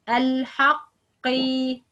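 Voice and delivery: al-haqqi very slow with heavy q; slow al-haqqi, q kept heavy despite the i; heavy qaf. Shown as a demonstration. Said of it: "That's right".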